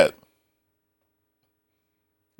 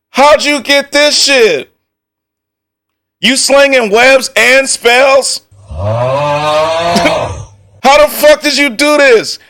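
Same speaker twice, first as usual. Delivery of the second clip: shocked disbelief; 8 semitones higher than usual. Real, not acted. Streamer reacting to a friend's modded outfit, stunned high disbelief. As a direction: gasp it out, can't believe the outfit.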